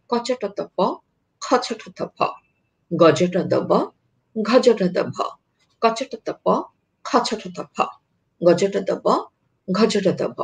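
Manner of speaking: crisp Bengali consonant rows কচটত প, খচটত ফ, each sound spelled out clearly; consonant drill demo. Shown as a demonstration. Teacher demonstrating the drill to students, every consonant articulated. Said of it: "আমি করে দেখাচ্ছি".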